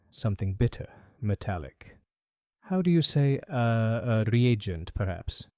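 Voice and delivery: put-on a faint French accent, bowing politely; light French accent. Perfumer greeting Holmes, faint French accent. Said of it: "faintest trace of a French accent".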